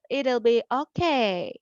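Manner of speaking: ordinary delivery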